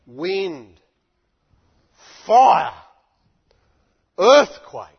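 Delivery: loud, punched single words; wind, fire, earthquake, hurled out; booming proclamation. Acted. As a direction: thunder each word out like a storm.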